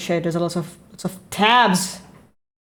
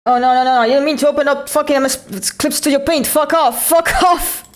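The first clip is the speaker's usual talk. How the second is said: loud frustration; 7 semitones higher, 5 dB louder than usual. Real, not acted. Panicked at wrong program opening.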